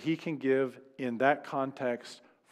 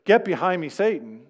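louder, higher stern rebuke; firm rebuke; 3 semitones higher, 5 dB louder than usual. Retold or imitated. Preacher voicing Jesus rebuking Peter sternly. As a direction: punch the rebuke out. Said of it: "When Jesus tells Peter".

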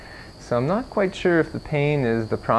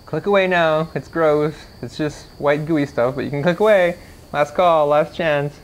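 louder, higher teasing warning; playful warning; 4 semitones higher, 4 dB louder than usual. Real, not acted. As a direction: warn viewers off with mock urgency. Playful warning before showing gunk.

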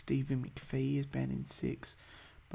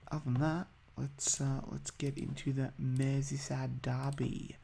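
a lightly put-on Scouse accent; half-hearted Liverpool Scouse accent; hammed-up Scouse accent, self-mocking; bad Scouse accent. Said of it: "That's the worst Scouse accent ever".

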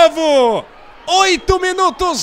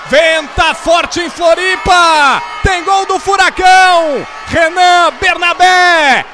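excited goal celebration. Real, not acted.

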